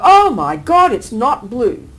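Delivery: sudden shocked exclamation. Retold or imitated. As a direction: blurt it out as if stunned. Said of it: "You'll get the shock of your life".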